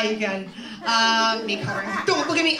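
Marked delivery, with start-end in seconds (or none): 2.0-2.6 high, loud playful protest; mock bashful. Comic asking audience not to look, mock shy. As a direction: shoo the audience's eyes away coyly.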